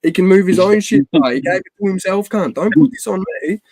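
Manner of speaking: high, loud retold self-defence; indignant protest. Friend refusing blame for his mate, indignant protest. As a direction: protest in exasperation, pitch climbing as you go.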